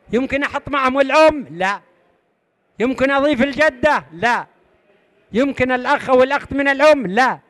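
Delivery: quizzing the class, answering each no himself; rhetorical quiz. Shown as a demonstration. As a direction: ask brightly, then shut it down. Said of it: "teacher quiz, asks and answers".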